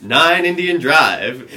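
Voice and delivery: slow, high yelled address; loud yell. Retold or imitated. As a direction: shout it out of the car window. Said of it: "like, a very loud voice".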